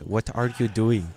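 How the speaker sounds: put-on slow, careful Spanish-accented English; lightly mocked learner's Spanish accent; imitated Spanish accent. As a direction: drag it out like a Spanish-speaking beginner. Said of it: "Like this with the accent".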